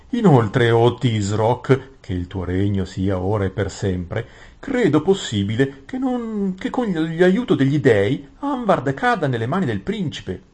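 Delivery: high, emphatic courtly vizier; Gran Visir ossequioso. Acted. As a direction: address the ruler with high-pitched ceremony. (visir cerimonioso, voce acuta ed enfatica)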